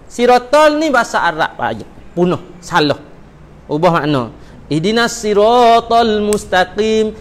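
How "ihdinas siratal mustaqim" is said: slow 'siratal' with a long a; correct recitation. Shown as a demonstration. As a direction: recite carefully and slowly. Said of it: "Kita baca".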